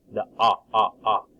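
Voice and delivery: "ah, ah" held open as in dog; short o sound. Shown as a demonstration. Teacher modelling the short o for children, stretched out. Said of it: "is a short O sound".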